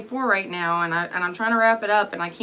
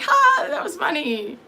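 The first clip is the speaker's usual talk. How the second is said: high, slow, laughing fake amusement; mock laugh; 9 semitones higher than usual. Mocking her own reply to the girls, high and laughing. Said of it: "And I'm gonna be like".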